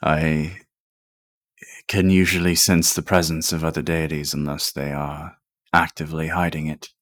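flat. Acted. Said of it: "he kinda says it flatly".

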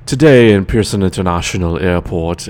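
put-on very proper, professional news-read with a Trini accent; Trinidadian news reporter. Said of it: "you're Trinidadian and you're a news reporter".

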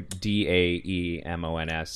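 clarifying the spelling of daemons letter by letter; spelled out. Shown as a demonstration. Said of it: "You're, you know".

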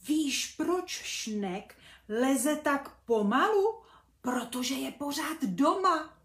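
eager to share the news; excited little bee. Acted.

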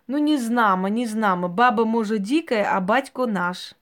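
put-on loud punchline in Ukrainian accent; Ukrainian village accent. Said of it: "украинский анекдот". (громкая развязка с украинским говором)

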